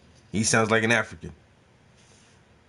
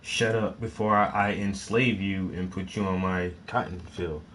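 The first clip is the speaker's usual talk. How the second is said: quieter and lower, stunned disbelief; disbelieving quote; 5 semitones lower, 7 dB quieter than usual. Retold or imitated. Reactor quotes a fourteen-year-old's threat, in a quiet, lower, disbelieving tone. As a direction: drop the voice, can't believe a kid said it. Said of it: "a fourteen-year-old is the one who said".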